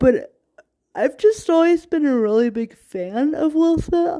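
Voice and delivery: words stretched out by yawning. Speaker sharing personal thoughts, yawning while talking. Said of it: "I'm sorry, I'm yawning".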